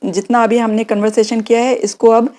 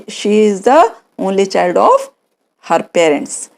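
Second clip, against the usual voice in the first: slow model answer; 2 semitones lower, much slower than usual. Shown as a demonstration. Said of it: "तो she".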